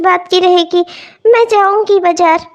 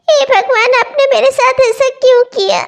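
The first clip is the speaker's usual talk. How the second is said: tearful plea. Acted. Crying to God.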